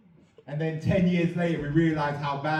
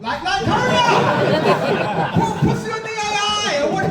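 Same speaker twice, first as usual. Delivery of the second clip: mock impatience; 6 dB louder, slower than usual. Impatient demand for AI.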